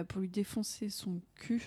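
slow, hushed whisper of a cheeky plan; whispered aside. Real, not acted. Whispering the rude part of the plan to his friends. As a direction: lean in and whisper it slowly.

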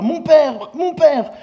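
high, loud anguished cry. Acted. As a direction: cry out after the departing master. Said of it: "Élisée cria, s'écria".

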